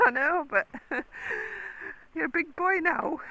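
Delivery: high, loud, laughing reply; giggly, high-pitched pet talk; amused coaxing. Real, not acted. Laughing as she answers her horse.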